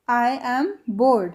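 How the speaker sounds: "I am bored" stretched very slowly; drawn out slowly. Shown as a demonstration. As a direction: repeat it slowly to drill. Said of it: "English में कैसे बोलेंगे". (बहुत धीरे खींचकर)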